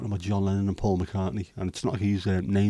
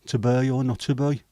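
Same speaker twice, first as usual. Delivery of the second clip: Brummie Shakespeare; 4 semitones higher, 3 dB louder than usual. Pretend. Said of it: "doesn't make any sense with a Brummie accent".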